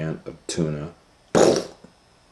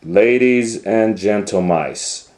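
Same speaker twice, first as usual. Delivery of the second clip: higher, louder ringmaster call; showman announcer; 4 semitones higher, 7 dB louder than usual. Acted. Doctor Varmint unveiling Cat Kong to the crowd, ringmaster voice. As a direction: present it to the crowd.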